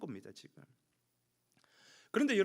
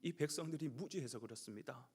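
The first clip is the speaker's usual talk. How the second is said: soft, lowered plea on someone's behalf; placating plea; 3 semitones lower, 4 dB quieter than usual. Acted. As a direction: plead gently with God for the people. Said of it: "오히려 하나님을 달래죠". (달래듯 낮고 부드럽게 간청)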